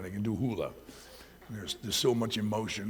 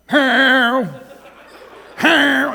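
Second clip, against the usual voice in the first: much higher and louder, laughing; jealous cat howl; 14 semitones higher, 14 dB louder than usual. Retold or imitated. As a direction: wail at the new dog. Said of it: "he's like".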